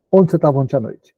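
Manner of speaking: a sudden, curt accusing question; dry, direct question. Shown as a demonstration. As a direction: fire the question out of nowhere. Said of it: "essa pergunta seca, direta".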